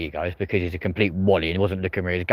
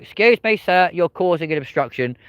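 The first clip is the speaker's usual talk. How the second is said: mock police officer; 7 semitones higher than usual. Police moving the man on, in a mock polite high voice. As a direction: put on a fussy officer moving someone on. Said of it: "they're gonna go".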